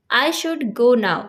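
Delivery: very slow, carefully spaced English words; slow teaching demo. Shown as a demonstration. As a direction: dictate it word by word to a learner. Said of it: "example देखिए".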